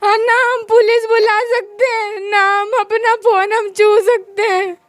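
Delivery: speaking through tears, barely holding on; crying. Real, not acted. Woman tells counselor she cannot call police, crying. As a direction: voice breaking in real tears. Crying while describing helplessness.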